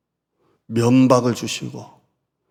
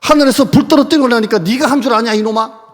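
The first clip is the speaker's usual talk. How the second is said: loud, much higher tirade; mock furious rebuke; 8 semitones higher, 7 dB louder than usual. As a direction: hammer him with every accusation. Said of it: "나는 그랬을 것 같아요".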